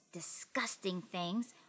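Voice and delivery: slow whisper, savoring the gross word; whispered relish. A narrator's reading. Boy savoring disgusting pie ideas, slow whisper. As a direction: let it drip with disgust, softly.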